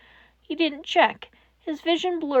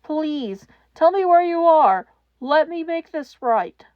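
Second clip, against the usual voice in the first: voice breaking; 4 semitones higher, 6 dB louder than usual. Acted. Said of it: "All Might's voice broke".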